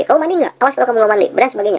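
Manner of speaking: high threatening parent voice; scolding parent. Retold or imitated. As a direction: scare the kid into the bath. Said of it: "kadang-kadang hanya menakut-nakuti".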